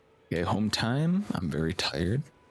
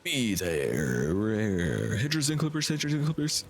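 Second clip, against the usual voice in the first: monster truck ad; 3 semitones higher than usual. Pretend. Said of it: "cheesy monster truck ad".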